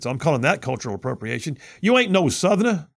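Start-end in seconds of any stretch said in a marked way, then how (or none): 1.8-2.9 higher mock Southern twang; mock Southern accent. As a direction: poke fun at a faked Southern accent. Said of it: "fake a Southern accent".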